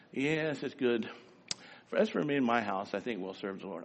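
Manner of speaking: soft, unsure, trailing low; limp and half-hearted. Shown as a demonstration. Preacher mocking a weak Joshua, soft and limp. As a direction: say it like you barely mean it. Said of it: "I don't think he said it that way".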